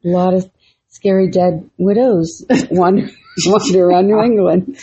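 breaking into giggles mid-phrase; laughing. Real, not acted. Podcaster telling co-host of dead widows, laughing. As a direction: try to talk through a real laugh. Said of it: "why are we laughing".

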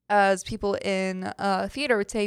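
ordinary delivery

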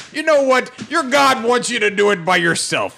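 mocking god voice. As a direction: sneer the god's words back. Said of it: "it says".

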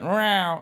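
a cat's meow done by mouth; imitated cat meow. Cat noise when asked for it, imitated meow. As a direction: give a meow like the watching cat. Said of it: "he went".

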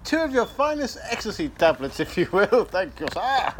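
high-pitched, genteel mock-English order; politely request it as an English caricature; put-on English accent. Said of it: "but more English".

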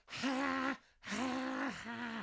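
high, fading fake ha-ha; a goofy laugh pitched high that dies away; mock heckler laugh. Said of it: "he's just leaning forward going".

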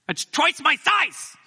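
slow, high astonishment; amazed emphasis. Real, not acted. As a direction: stretch it out in disbelief. Marveling at snow depth.

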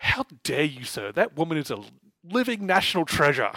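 hammed-up outrage, punching the final words; mock indignation. Host defends a pop singer to his co-host, mock indignant.

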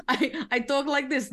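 put-on character voice. Player showing her old character to viewers, put-on voice. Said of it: "Infinity doesn't talk like that".

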